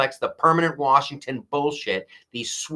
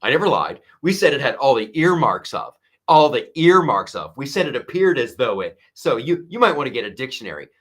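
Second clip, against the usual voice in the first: louder, smug mock protest; smarmy denial; 5 dB louder, faster than usual. Host mimics FBI guy denying lies to Bret Baier, smarmy loud protest. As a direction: play the smug official insisting he never lied. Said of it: "is like".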